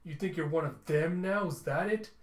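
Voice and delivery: mildly exasperated, rising challenge; acted irritation, building toward the questions; annoyed. Telsa challenging a crewmate's sudden conscience, annoyed. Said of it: "Telsa gets annoyed".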